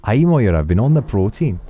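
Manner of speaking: put-on a wee baby boasting in a broad Scottish accent. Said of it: "the wee baby's gonna say".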